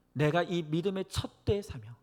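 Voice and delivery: ordinary delivery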